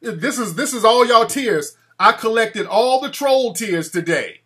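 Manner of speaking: a vampire gloating over the tears of the trolls. Pretend. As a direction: relish the collected tears out loud. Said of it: "I'm like".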